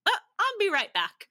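high, loud, hurried-off announcement; bright idea, called out high and loud; eager dad. Retold or imitated. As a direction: imitate dad popping out excitedly. Voicing her dad's sudden errand.

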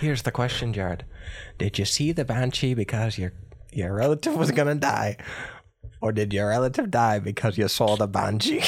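storyteller's Irish accent; put-on Irish accent. Shown as a demonstration. Host questioning co-host on banshees, Irish accent. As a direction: pose the riddle in Irish accent. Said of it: "I'll give you mine".

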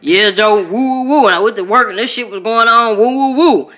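lightly voiced Chicago homie hollering; Chicago guys. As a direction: hype it up like the guys on the block. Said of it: "that's how they talk".

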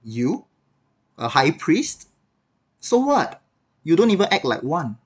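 scolding. Retold or imitated. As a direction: scold him with scornful disbelief. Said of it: "I probably would have continued scolding".

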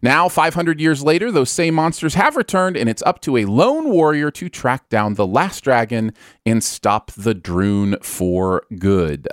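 grand trailer narration, slowing at the end; epic fantasy narrator. Acted. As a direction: tell the legend like a movie trailer. Reads the movie synopsis.

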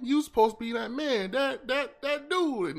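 high, pleading mock heartbreak; betrayed fan outcry. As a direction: cry out like your hero just stabbed you in the back. Betrayed by Reagan, acted outcry.

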